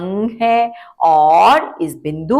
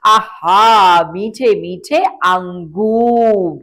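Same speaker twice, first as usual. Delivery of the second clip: mock delight; much slower than usual. Teacher savoring juicy grapes.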